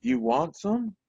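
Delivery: high-pitched imitation of the cook; kindly cook offering leftovers, voiced high; head cook offering. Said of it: "she goes".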